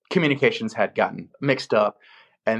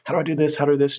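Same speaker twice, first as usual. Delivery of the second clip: nervous self-talk, pitched up; mildly anxious, higher-pitched muttering to yourself; trepidatious; 5 semitones higher, faster than usual. Retold or imitated. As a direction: act out first-job jitters, voice raised higher. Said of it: "like, trepidatious".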